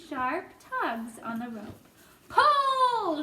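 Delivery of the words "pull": high, loud single command; urgent shout. Acted. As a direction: order the team to haul. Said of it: "shouted the old green grasshopper".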